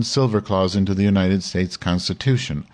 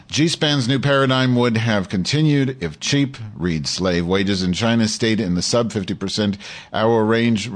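lightly heightened reading voice, a bit more lift than his asides; article read aloud. Acted. Host reading an article to his audience, lightly dramatic read. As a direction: read the op-ed out like a column on air.

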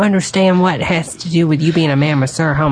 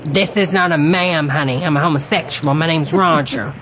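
Roger voice. Acted. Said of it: "you were sounding like Deborah, not Roger".

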